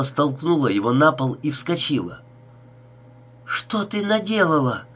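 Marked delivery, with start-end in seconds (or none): 3.4-4.9 high shocked cry at Gerda; yelling in horror at what she did. A narrator's reading. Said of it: "крикнула она Герде".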